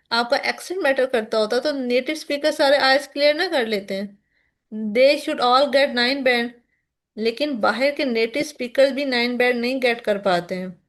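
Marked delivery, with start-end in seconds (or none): 4.9-6.5 slow and emphatic. Shown as a demonstration. Teacher arguing about native speakers, slow emphatic delivery. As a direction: land the point word by word. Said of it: "teacher's rhetorical point".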